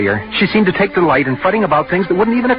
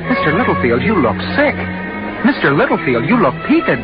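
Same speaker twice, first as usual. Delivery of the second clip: mimicking the well-meaning worriers; sarcastic imitation of others' concern; bitter mock quote; 5 semitones higher than usual. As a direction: build the mock concern, pitch climbing. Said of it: "smile at me and say".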